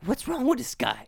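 high-pitched, puzzled disbelief; retold bewildered question; baffled reaction. Acts out his puzzled reaction.

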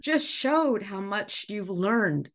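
fighting back tears while praising him; getting emotional. Real, not acted. Teacher choking up praising a student for his courage. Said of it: "I'm gonna get emotional".

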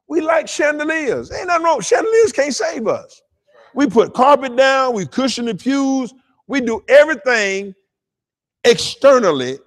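high-pitched sermon delivery; impassioned preaching. Real, not acted.

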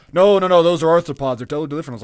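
mock the uncle insisting hard; uncle's indignant protest. Quoting the science-teacher uncle's loud objection. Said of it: "No, those are bugs".

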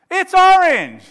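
very loud, high insistence; shouted retort. Acted. Friend arguing over a card colour, angry shout. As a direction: yell it back to win the argument. Acted quarrel escalating.

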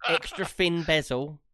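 hammed-up tech ad voice, laughing; mock iPad ad voice. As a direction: play it like an Apple advert. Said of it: "Wow, great impression".

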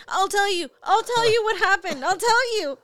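shouting high and eager; a kid bursting to confess, loud; loud excited child. Retold or imitated. Mother imitating her son's eager loud outburst.

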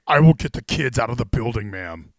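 a hint of straight-to-DVD action hero; lightly mock a low movie-hero voice; put-on low hero delivery; forced deep voice. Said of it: "forced, like, deep voice".

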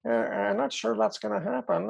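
high, hammy mock French accent. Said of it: "in a French accent".

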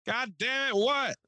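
put-on high, exasperated old-man yell; mad as hell. Old man disturbed at night by knocking, mad as hell. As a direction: imitate a furious neighbor hollering back. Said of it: "Like, mad as hell".

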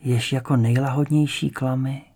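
slow, measured verse with long pauses; poem recitation. A narrator's reading. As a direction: recite it slowly, line by line, letting each hang.

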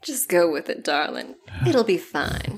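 hushed, soothing aside; reassuring aside. Acted. Soothing companion after whispered aside.

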